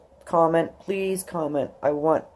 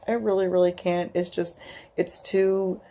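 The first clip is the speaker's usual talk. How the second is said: crying; 2 semitones higher, 4 dB quieter than usual. Real, not acted. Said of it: "here I am bawling again".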